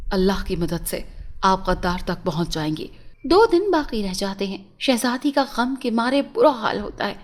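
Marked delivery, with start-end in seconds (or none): 0.1-2.9 reassuring. A narrator's reading. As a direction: gently reassure the worried princess. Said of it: "उसे तसल्ली देता है कि".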